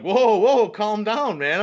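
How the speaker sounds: put-on nervous teen begging stranger to calm down; panicked calming. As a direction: talk a furious guy down fast. Trying to calm angry stranger.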